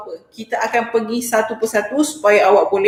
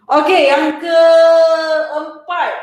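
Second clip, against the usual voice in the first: sing-song announcement; 4 semitones higher, 5 dB louder, much slower than usual. Acted. Teacher announcing the next point.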